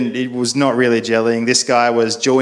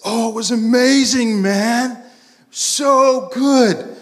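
high-pitched, blown-away enthusiasm; excited friend; 11 semitones higher, slower than usual. Retold or imitated. Friend raves to Pete after church, acted excitement. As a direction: gush like an awestruck, hammed-up convert.

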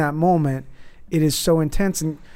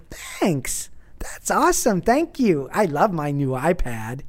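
put-on child thanks; slower than usual. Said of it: "He's like".

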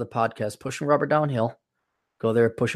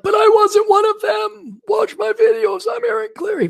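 put-on pleading old self; 3 dB louder than usual. Old man in nursing home pleading, high whiny voice. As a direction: whine it like a helpless old man. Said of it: "I'm like".

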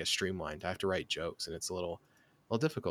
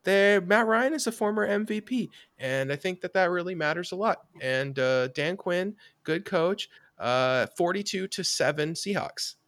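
higher, louder put-on voice, mock sincere pundit; Eric impression; 11 semitones higher, 7 dB louder than usual. Host mocks missing co-host Eric's picks, higher and louder mock voice. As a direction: ham up your absent co-host talking up the Falcons. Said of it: "I'm gonna do an Eric impression then".

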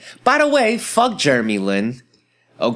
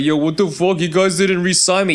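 mock Jeremy Lin; 6 semitones higher than usual. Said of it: "he blamed it on the Knicks, like".

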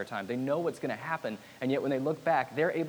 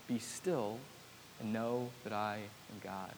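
hushed verse; 3 semitones lower, 9 dB quieter, slower than usual. Shown as a demonstration. Quoting the verse again softly.

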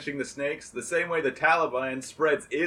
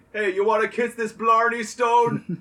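mock pimp pitch; 8 semitones higher, 5 dB louder than usual. Saint as pimp hawking stone.

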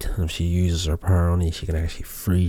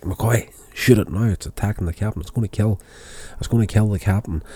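urgent order; 4 semitones higher, faster than usual. Retold or imitated. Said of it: "he's like".

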